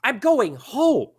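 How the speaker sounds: put-upon halfling whining about his trouble; indignant little man; fussing, annoyed. Acted. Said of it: "fussing at a lady".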